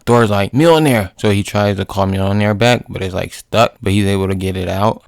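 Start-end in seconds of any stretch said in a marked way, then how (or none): 0.5-1.1 loud, high summoning shout; mock-heroic shout; acted calling out. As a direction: call the hammer to you. Thor calling his hammer.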